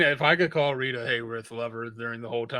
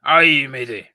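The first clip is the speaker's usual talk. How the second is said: put-on pirate accent; 2 semitones lower, 6 dB louder, slower than usual. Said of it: "No, that's a pirate".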